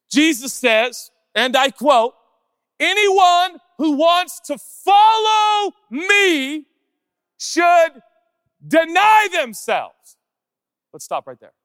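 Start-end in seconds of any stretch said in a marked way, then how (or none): 0.1-10.2 quoting Jesus in a loud, slow, high proclamation; preaching shout. Acted. Pastor to church, proclaiming Jesus' words in a loud slow shout. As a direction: belt out each word of the scripture.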